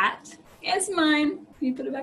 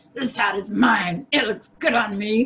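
low, growly big polar bear voice; 4 semitones lower, 4 dB louder than usual. Telling a spin-the-hat story as the polar bear takes the hat, in growling polar bear voice. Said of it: "the polar bear growls".

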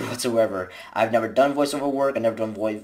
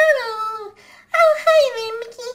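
voice pushed very high in pitch; 4 dB louder than usual. Showing which cartoon voices they can do, the speaker tries a Minnie Mouse voice. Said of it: "I can't do high pitched voices like Minnie Mouse".

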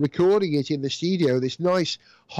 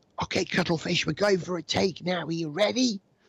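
very quiet, soft, hushed murmur; 4 dB quieter than usual. Retelling speaking to a cuttlefish just before filming, said very quietly. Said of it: "said very quietly to the cuttlefish".

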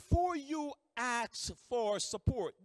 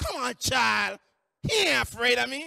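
put-on hyped-up woman's yell, much louder; 9 dB louder than usual. Retelling how a yelling woman answered a warning that Carl fears her, imitating her hyped-up yell. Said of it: "And she go".

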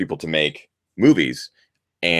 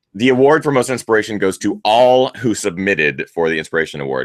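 normal talking voice

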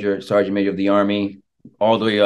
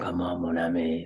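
bad, clumsy Creole accent, very soft, hushed; 3 semitones lower, 11 dB quieter than usual. Guest asked about a dream project, trying a line as Gambit: bad Gambit Creole accent. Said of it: "speak a little Creole".

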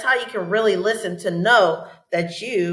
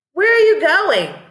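bright, very high, lightly excited; 9 semitones higher, 6 dB louder than usual. Teacher modeling a question for students to repeat: a little excitement. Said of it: "Gives you a little excitement in your voice".

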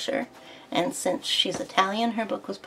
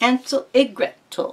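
fake Italian man's accent, higher and louder; 6 semitones higher, 5 dB louder than usual. Listing story titles while faking an accent, in a fake Italian accent. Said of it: "talking like an Italian man".

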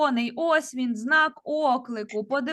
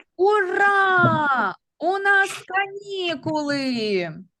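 strong, excited, joyful cry with "Ура" drawn out; 4 semitones higher, 4 dB louder than usual. Reading out a sentence and naming its punctuation, strong joyful exclamation. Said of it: "Це речення я вимовляю із сильним почуттям радості".

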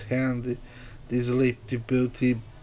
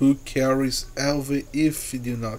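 ordinary delivery

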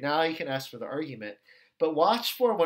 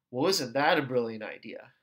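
mock-sarcastic, negative, much lower pitch; 5 semitones lower than usual. Explaining a study-group example, acting out another person's sarcastic remark. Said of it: "they say it in that like sarcastic, negative way".

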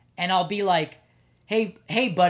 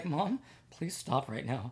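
near-tears, teary pleading voice; 5 semitones lower, 11 dB quieter than usual. Retelling a son begging his mom during a public lecture: imitating a teary plea. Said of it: "almost teary".

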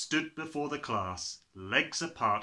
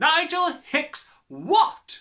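shrill bellow, very high-pitched and very loud; 11 dB louder than usual. Narrating a story, the Trunchbull questions a boy named Nigel: Trunchbull bellowing. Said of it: "the Trunchbull bellowed".

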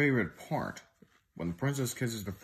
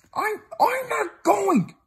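shrill, very high, very loud defiant outcry; 9 dB louder than usual. Froggy answers Mom, crying out. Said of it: "cried Froggy".

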